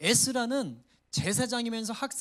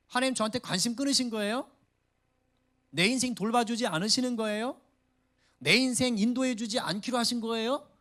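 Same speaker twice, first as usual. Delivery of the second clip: mock complaining to God; 4 semitones higher, 3 dB louder than usual. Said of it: "이러고 따지고 있는 겁니다".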